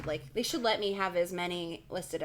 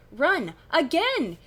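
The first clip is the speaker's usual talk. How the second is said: louder acted scream; 8 semitones higher, 8 dB louder, much slower than usual. A narrator's reading. Kid to both friends in the back room, screaming. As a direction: shout it as an urgent order. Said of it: "you scream at Stacy and Jason".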